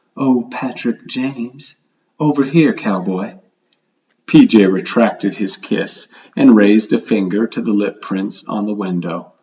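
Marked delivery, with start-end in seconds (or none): 0.2-3.4 most seductive, sultry, come-hither voice. Reading a woman calling a man from across the desert: seductive voice. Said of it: "in her most seductive voice".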